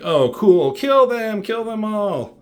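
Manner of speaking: high, menacing villain order. Acted. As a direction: bark the kill order like a cartoon villain.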